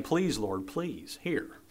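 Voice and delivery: soft, pleading prayer; heartfelt plea. Acted. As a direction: plead quietly, voice lifting on the last words. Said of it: "almost as if he's saying".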